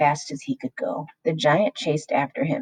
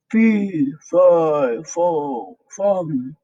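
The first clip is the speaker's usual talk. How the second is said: giant shouting. A narrator's reading. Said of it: "he shouted".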